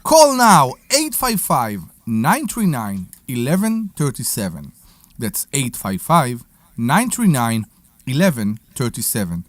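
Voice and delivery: phone number read like a radio ad; announcer read. Shown as a demonstration. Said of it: "Keep going".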